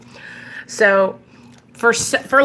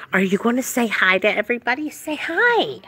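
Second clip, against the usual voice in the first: coaxing pet talk; 3 semitones higher than usual. Real, not acted. Owner coaxing dog to greet viewers, cutesy coaxing.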